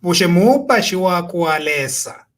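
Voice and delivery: "Ushe mupashi wako alesa" as an emphatic question with a falling end; pointed questioning intonation. Shown as a demonstration. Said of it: "Mwayo mfa intonation".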